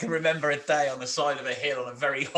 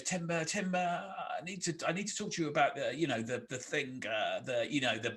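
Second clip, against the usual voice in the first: awkward mumble; 3 dB quieter than usual. Retold or imitated. Paul trying to pull Tim aside, hesitant and fumbling. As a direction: stammer like you can't find the word. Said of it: "he goes".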